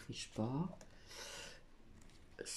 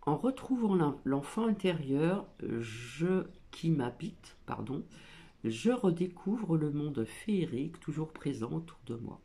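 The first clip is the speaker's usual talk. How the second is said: card reading; 4 dB louder than usual. Acted. Reads the card text aloud.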